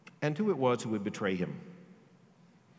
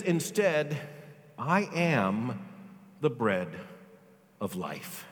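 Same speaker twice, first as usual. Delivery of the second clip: solemn fading declaration; much slower than usual. Acted. Jesus' solemn self-declaration.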